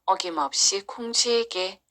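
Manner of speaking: measured storybook narration with clear phrase pauses; story narration. A narrator's reading. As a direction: tell it like a folktale for children. Narrates a children's folktale.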